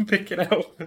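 high tipsy slurred call; lightly voiced drunk presenter; drunk singer. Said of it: "He's just going".

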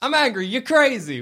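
test-run both lines as separate announcements; deliberately unnatural little demonstration; stilted demo line. Shown as a demonstration. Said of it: "What do we reckon?".

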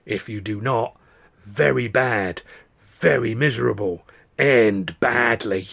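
slow rasping fortune teller; old woman's rasping voice. Retold or imitated. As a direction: rasp it out like an old seer. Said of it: "the old woman's rasping voice".

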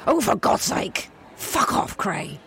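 Scottish slipping into a plain English voice; a Scottish wife swearing at her husband, accent barely there; failed Scottish accent. Acted. A Scottish wife swears at her husband, the Scottish accent failing. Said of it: "That wasn't very Scottish".

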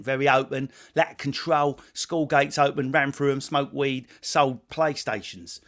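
loose, open London accent; London accent with little control; slow into an open London drawl at the end. Shown as a demonstration. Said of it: "if you listen to a London accent".

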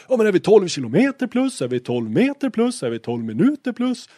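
loud, high-pitched imitation of a ranting driver; retold stressed shouting match; yelling and screaming. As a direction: hurl each question in mock fury. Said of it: "Och bara gapar och skriker".

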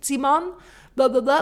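high, loud blur of names; rattled-off names. Retold or imitated. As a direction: mimic fast names half-heard. Fast French names heard.

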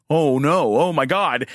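sudden fright at the flames; panicked. Retold or imitated. Spotting the plastic fireplace burning, panicked.

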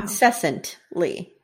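slow, measured "incessantly"; careful pronunciation. Shown as a demonstration. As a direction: sound out "incessantly" in parts, in-CESS-ant-ly. Sounding out the questioned word.

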